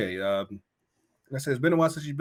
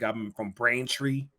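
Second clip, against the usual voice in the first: put-on Boston accent. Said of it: "Boston accent".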